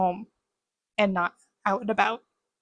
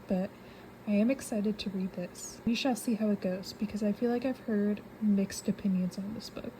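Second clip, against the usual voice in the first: hushed late-night talk; 5 dB quieter than usual. Real, not acted. Late-night quiet book chat.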